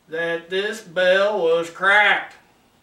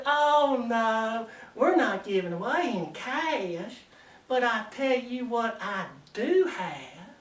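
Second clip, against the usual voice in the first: lightly voiced coy Southern belle; a hint of a Georgia shop girl; 4 dB quieter than usual. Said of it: "good-looking Southern belle".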